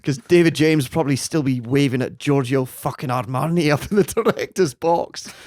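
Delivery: put-on rough Scottish manager accent; Alex Ferguson. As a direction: warm into a Scottish team-talk rant. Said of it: "You got into it at the end".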